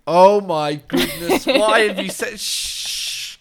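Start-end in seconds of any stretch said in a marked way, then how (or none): 2.4-3.4 unvoiced hush; shushing. Real, not acted. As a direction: hush them so nobody hears. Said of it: "keep that to yourself".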